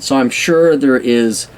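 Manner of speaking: ordinary talk, nothing marked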